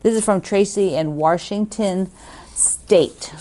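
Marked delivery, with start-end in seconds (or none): 2.5-3.3 whisper. Real, not acted. Naming a card sender's home, whispered. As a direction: State whispered with no voice. Adding Washington State.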